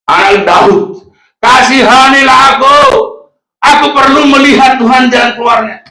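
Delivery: impassioned, high-pitched calling; desperate crying out. Acted. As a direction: cry out for mercy over a crowd. Acts blind Bartimaeus crying out to Jesus.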